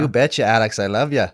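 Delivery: loud mock North Dakota accent; hammed-up Fargo wife accent. Wife from Fargo to her husband, North Dakota accent. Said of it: "like she was from Fargo".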